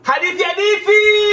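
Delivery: high ringing call to the crowd. Acted. Storyteller summons the audience to the story, high ringing call.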